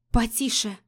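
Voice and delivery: muffled mumble into his chest; mumble, face pressed in; пробубнила в грудь. Acted. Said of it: "пробубнила я ему куда-то в грудь". (приглушённо бубнит ему в грудь)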